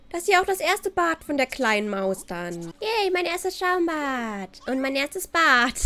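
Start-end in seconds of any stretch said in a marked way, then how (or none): 2.8-5.7 put-on slow, drawn-out little cheer as the baby; slow, playful baby cheer; happy baby. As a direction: lightly voice a delighted baby at bath time. Speaks as the baby being bathed.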